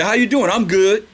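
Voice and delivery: lightly voiced everyday greeting; a hint of a breezy hello and reply; casual greeting. Preacher mimics modern greeting to congregation, lightly casual. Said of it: "We say".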